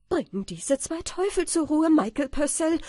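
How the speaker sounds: high, loud, desperate threat; crying out. A narrator's reading. Landlord threatening Michael amid the beating, crying out. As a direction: shout it as an order under attack. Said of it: "bis der Gutsherr endlich ausrief".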